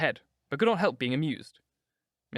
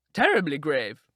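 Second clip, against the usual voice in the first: echoing aunt; 2 semitones higher, 5 dB louder, slower than usual. A narrator's reading. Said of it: "echoed Lady Agatha".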